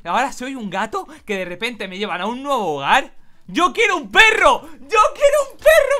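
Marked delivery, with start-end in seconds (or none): 3.5-5.9 loud, high squeal of disbelief; outraged exclamation. Acted. Cat player reads the girl's dog wish, shrieking in outrage. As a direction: squawk it out louder and higher each time.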